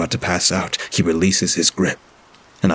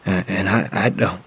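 voice breaking. Acted. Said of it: "his voice breaks".

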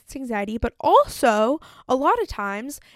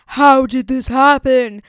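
slow, much louder, stunned; old disbelieving self; 3 semitones higher, 12 dB louder, slower than usual. Retold or imitated. Her old self reacting to success, stunned loud disbelief. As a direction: blurt it out in disbelief at good news. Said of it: "it would have been like".

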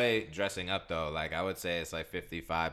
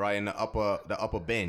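mock British accent; 3 semitones higher, 4 dB louder than usual. Continuing the British accent bit.

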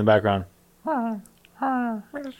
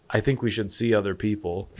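mock breakup line; 3 semitones lower, 8 dB quieter than usual. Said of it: "this is what I'm gonna tell them".

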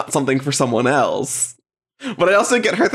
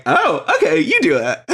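laughing handoff; 3 semitones higher than usual. Retold or imitated. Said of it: "she's like".

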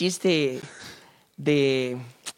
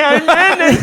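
higher, louder nasal-speech cry; nasal-speech guy; 9 semitones higher, 6 dB louder, much slower than usual. Acted. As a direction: blurt it through the nose. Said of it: "le dice el gangoso". (gangoso agudo y fuerte)

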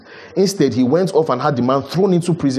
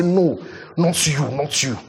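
mock refusal; 3 semitones higher, slower than usual. Mimics an unforgiving believer.

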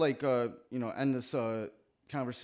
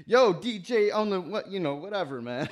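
hype man; 7 semitones higher, 6 dB louder than usual. Retold or imitated. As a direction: shout it out like a hype man on the mic. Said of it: "the M Cs were just the hype man".

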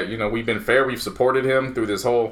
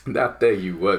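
Gruden; 6 semitones lower, 4 dB quieter than usual. Acted. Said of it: "do do your Gruden voice".

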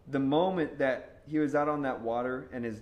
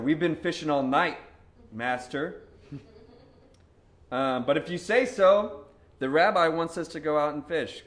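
mildly irritated, louder retort; 5 dB louder than usual. Retold or imitated. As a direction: let a touch of irritation push the voice up. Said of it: "man, was Peter irritated".

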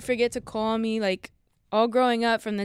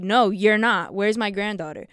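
retold firm denial, louder at the start; bothered grandma; 2 semitones lower, 5 dB louder than usual. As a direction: lightly imitate a bothered grandmother. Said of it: "Like, she's bothered".

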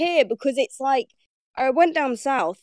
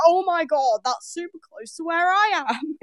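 higher-pitched happy surprise; retold amazement; 6 semitones higher than usual. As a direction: act out being amazed by a coincidence. Retelling surprise at living close by.

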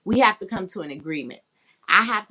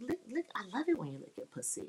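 mock sexy moaning; 3 semitones higher, 6 dB quieter, faster than usual. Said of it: "they try to use their finger".

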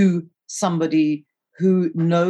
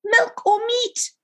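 very high, drawn-out yell; high sister's call, stretched out; yelled-back question; much slower than usual. A narrator's reading. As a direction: holler it back slowly from another room. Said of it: "Martha yelled back".

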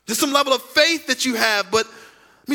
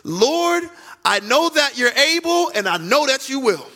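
confident prayer. Shown as a demonstration. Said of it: "Great faith is".

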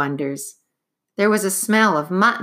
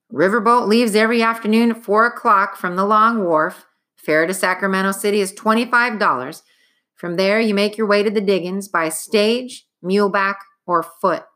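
brisk clerk; 3 semitones higher, 4 dB louder than usual. Acted. Clerk gives routine directions.

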